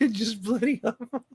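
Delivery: high-pitched mock Irish accent; put-on Irish accent. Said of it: "that accent should have impressed".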